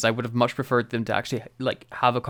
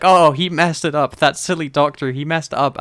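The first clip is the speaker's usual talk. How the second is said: amused; 3 semitones higher, 6 dB louder than usual. Retold or imitated. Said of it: "starts laughing to herself".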